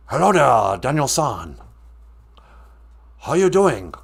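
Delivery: mock Asian accent. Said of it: "my racist impersonation of every Asian".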